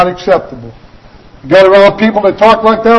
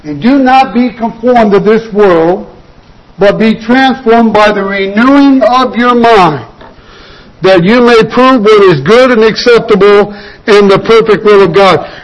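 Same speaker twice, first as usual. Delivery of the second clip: scripture reading. Acted. Preacher reads scripture aloud.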